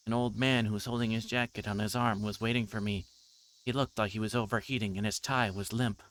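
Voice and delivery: reading the novel's lines aloud, lightly voicing characters; story narration. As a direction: read it like a story for listeners.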